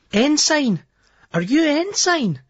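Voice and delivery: high, refined posh lassie; a posh student girl asking the DJ. Acted. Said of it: "in quite a posh voice".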